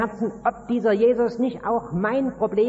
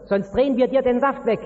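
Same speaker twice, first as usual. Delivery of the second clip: langsame, etwas lautere Drohung; drohend; 3 semitones higher than usual. Acted. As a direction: nachgespielte Drohung, nicht voll ausgespielt. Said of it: "da werden sie dich bedrohen". (Leute drohen dir, mit Jesus aufzuhören, langsam und leicht gespielt drohend)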